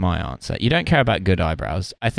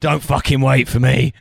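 lightly put-on oafish footballer voice; mock Scouse lout calling back; Wayne Rooney; 3 semitones higher than usual. Oaf telling his mates not to wait, mock lout voice. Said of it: "It was just, like, Wayne Rooney".

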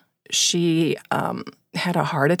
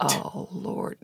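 whispered dismay; 12 dB quieter than usual. Retold or imitated. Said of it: "I'm just going".

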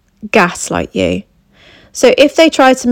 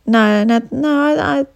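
higher, insistent, dismissive denial; gaslighting denial; 4 semitones higher than usual. Retold or imitated. Gaslighting partner denying the conversation, dismissive and insistent. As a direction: brush off their memory with a flat no. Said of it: "They'll turn around and go".

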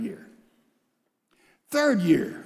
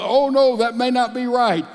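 mock contradiction; 4 semitones higher than usual.

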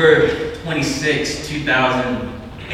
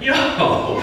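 stunned yo; 12 semitones higher than usual. Retold or imitated. Retelling his stunned reply.

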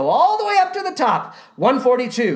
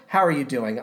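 out of breath; 8 semitones lower, faster than usual. Real, not acted. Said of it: "I'm almost out of breath".

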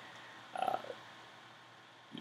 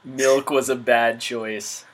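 Anchorman quote; slower than usual. Retold or imitated. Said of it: "devolve into Anchorman quotes".

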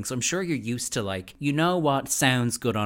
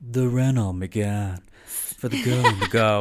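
slow, loud car-ad impression; Luann; 6 dB louder, slower than usual. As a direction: put on a drawn-out reality-star ad voice. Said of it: "I'm imagining Luann being like".

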